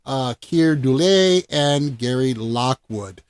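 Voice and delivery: measured, dramatic synopsis narration; film introduction read. Acted. Host presenting the final film's premise, narrator-style. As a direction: present it like a movie-show host.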